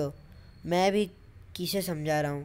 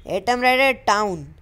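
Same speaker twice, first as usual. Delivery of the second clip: shouted command; 3 semitones higher, 5 dB louder, slower than usual. Acted.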